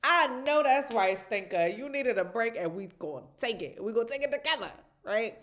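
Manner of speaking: put-on rally her kid to take a break; loud encouraging mom. Mom praising her daughter for breathing, loud and encouraging. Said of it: "And I'm like".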